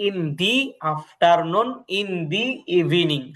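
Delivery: slow, drawn-out "the" as "dee" before afternoon and evening; teacher's slow model of "the" with an ee vowel. Shown as a demonstration. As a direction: stretch "the" into "dee" each time. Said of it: "দাটা দিয়ে উচ্চারণ হইছে".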